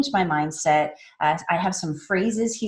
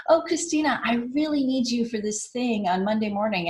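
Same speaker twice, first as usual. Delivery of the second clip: high, eager voice of a friend asking a favour; a lightly voiced friend begging for help; pleading friend; 4 semitones higher than usual. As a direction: play the needy friend calling up. Friend calling with a request.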